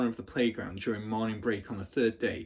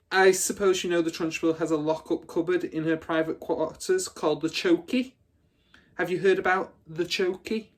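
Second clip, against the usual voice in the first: louder, higher, relishing the horror; gleeful bully; 7 semitones higher, 5 dB louder than usual. Acted. Hortensia scaring the little girls, louder and higher. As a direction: savour every word of the threat.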